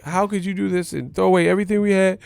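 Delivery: fast, high mock girlfriend voice; girlfriend accusing. Girlfriend accusing him of cheating with his manager, fast high mock voice. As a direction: rattle it off as the hurt girlfriend. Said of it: "And she was like".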